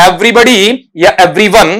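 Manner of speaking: slow dictation of the question; slow reading. Shown as a demonstration. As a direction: read the question out slowly with pauses. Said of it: "सवाल एक बार फिर से पढ़ देता हूं".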